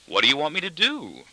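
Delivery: high-pitched feigned innocence; unconcerned innocence. A narrator's reading. Daughter to her father, maliciously innocent. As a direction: play innocent, with a touch of malice. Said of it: "to a tone of unconcerned innocence".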